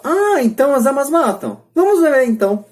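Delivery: father in a cartoon, sarcastically taking up his daughter's claim; sarcastic dad. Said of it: "Ela fala".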